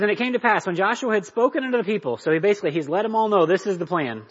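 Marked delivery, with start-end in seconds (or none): 0.0-2.2 raised, emphatic Bible reading; high, loud read-aloud; scripture reading. Acted. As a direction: proclaim the verse from the pulpit.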